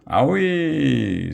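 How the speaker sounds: high drawn-out squeal of pain; a high cartoon troll squeal. A narrator's reading. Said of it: "squealed Grog".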